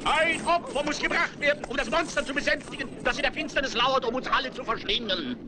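public proclamation. Acted. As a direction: proclaim to the whole square. Town crier addressing citizens.

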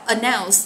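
announce, second syllable stressed. Shown as a demonstration. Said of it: "Từ này các bạn nhấn âm hai".

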